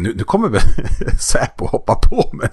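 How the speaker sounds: laughing through the words; amused, half-laughing; laughing thought. Retold or imitated. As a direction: giggle out the worry. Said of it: "jag tänkte så här".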